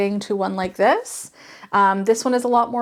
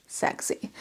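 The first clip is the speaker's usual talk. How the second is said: whispered; 10 dB quieter than usual. Real, not acted. Playful whispered repeat of sexy.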